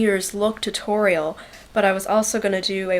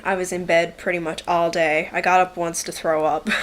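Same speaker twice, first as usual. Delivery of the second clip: usual speaking voice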